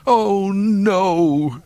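high, drawn-out wail of dismay; high-pitched despairing lament; groaning droid. A narrator's reading. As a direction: groan it like a fretful robot butler. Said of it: "three P O groaned".

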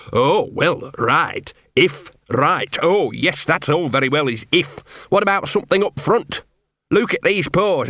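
a hint of a gruff, put-upon street dog; grumbling self-pity, lightly voiced; lightly voiced scruffy dog. Gaspode telling Carrot his sad life, lightly grumbling.

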